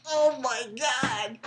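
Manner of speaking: retold gasp. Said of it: "I was like".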